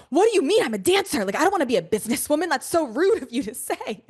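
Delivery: high, indignant retort; a touch of huffy outrage; mock indignant. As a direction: act out being insulted, lightly hammed-up. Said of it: "I got pissed".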